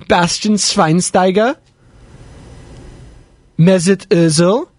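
slow, hammed-up German accent. Host shouting out the World Cup team, in a German accent. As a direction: draw out each name in a mock German accent. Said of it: "good my accent is there".

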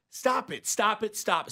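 a hint of a strict dad-coach; stern coach. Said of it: "looks at him and goes".

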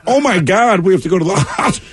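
high, hammed-up urgency; mock panic. Husband after wife's jump from the car, acted panic. Argument turns into retold emergency.

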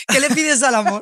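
real laughter bubbling through an insistent question; laughing question. Real, not acted. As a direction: ask it while cracking up. Laughing while pressing for an answer.

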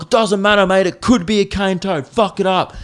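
a Queensland local telling a tourist to kill the toad, lightly voiced Aussie; mock Queensland bloke. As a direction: ham up a Queensland local egging him on. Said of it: "everyone from Queensland was like".

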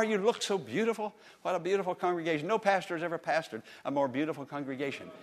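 quick, teasing compliment; butter up the crowd, fast; playful flattery. Real, not acted. Pastor teasing the congregation with flattery, quick and playful.

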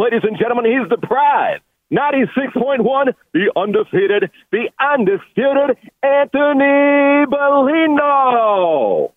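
booming boxing announcer, name stretched out; lucha libre announcer. Acted. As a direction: hype him like a title fight. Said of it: "Michael Buffer on the other side".

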